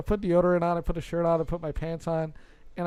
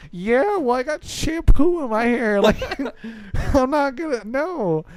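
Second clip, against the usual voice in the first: loud, high refusal breaking into laughs; retold indignant shouting; exasperated protest; 7 semitones higher, 6 dB louder than usual. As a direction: yell back in disbelief, half laughing. Acted exasperated refusal from shower.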